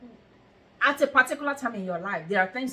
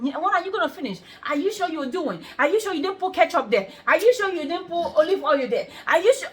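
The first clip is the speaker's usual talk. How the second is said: rapid-fire nagging questions, each one higher; mock nagging boyfriend, building; 5 semitones higher than usual. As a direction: pester her like an annoying boyfriend. Mimicking nagging boyfriend, rising.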